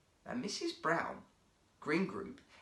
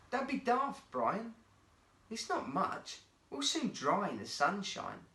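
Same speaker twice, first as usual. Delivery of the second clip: cheerful friend; 7 semitones higher than usual. A narrator's reading. Jacob reassuring Brian.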